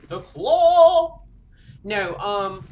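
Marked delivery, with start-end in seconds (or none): 0.1-1.2 high, loud thrilled shout; excited cry. Real, not acted. Gamer spotting her favorite claw item, thrilled shout. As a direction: shout it like you just spotted the prize.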